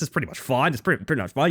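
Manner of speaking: rural Australian country way of talking. Asked if they're good at it, demonstrating how people talked where they grew up, Australian country accent. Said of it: "I've known enough people to talk like this".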